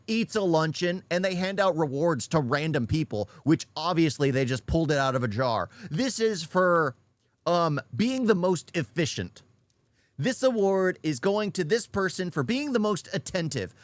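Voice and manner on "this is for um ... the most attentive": higher, hammed-up presenting voice; mock award presenter. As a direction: announce a trivial prize with mock ceremony. Mimics a workplace award presenter.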